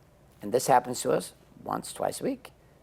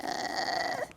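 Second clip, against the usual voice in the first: dismissive shrug; 6 dB quieter than usual. Retold or imitated. Men shrugging off change.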